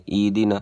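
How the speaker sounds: ایدنا as "ee-dina"; ایدنا missing the breath; mistaken dropped h. Shown as a demonstration. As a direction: say ایدنا with long "ee", no h. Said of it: "اس طرح بھی نہیں ہوگا".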